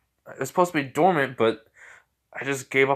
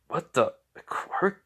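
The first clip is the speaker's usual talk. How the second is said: hushed, drawn-out disbelief; stunned disbelief; 6 semitones higher, slower than usual. Acted. Boy muttering to himself about a quirk, stunned disbelief. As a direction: breathe it out slowly, barely voiced. Startled hero reacts to voice.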